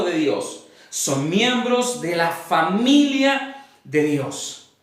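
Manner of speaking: slow, deliberate reading with weighted pauses; measured Bible reading to a congregation; solemn scripture reading. Acted. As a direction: read the verse out phrase by phrase, letting each land. Reads scripture aloud to congregation.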